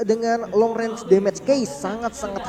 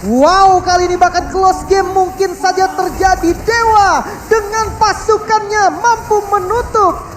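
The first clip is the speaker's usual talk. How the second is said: high, loud victory call; excited; 8 semitones higher, 5 dB louder, slower than usual. Real, not acted. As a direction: celebrate the comeback win. Co-caster celebrates the win.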